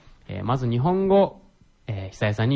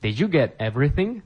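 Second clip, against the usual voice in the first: slow repetition; 3 semitones higher, slower than usual. Shown as a demonstration. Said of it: "teacher repeats phrase for learners".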